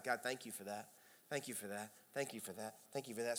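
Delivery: soft, low run of thank-yous; murmured thanks. Pretend. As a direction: rattle off little thanks to God, softly. Models quick private thanks to God.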